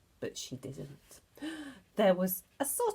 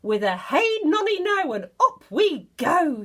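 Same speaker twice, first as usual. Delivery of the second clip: put-on loud, high singsong old woman's shout; Grandma crowing while rising through the floor; 8 semitones higher, 8 dB louder than usual. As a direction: chant it out like a giddy old woman. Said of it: "she shouted".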